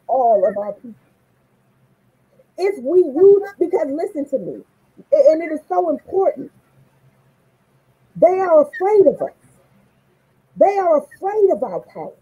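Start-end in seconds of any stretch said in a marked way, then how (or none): 2.6-12.1 preaching. Real, not acted. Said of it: "Preach, sister".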